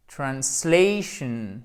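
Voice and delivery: "translation" slowly with short first a, stretched SLAY; English "translation", drawn out on the stressed ay; slow model pronunciation. Shown as a demonstration. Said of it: "ça c'est un A court".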